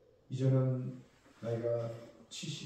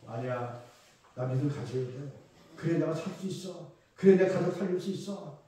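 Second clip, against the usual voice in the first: building resolve. Pretend. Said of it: "정신 차려야 돼요".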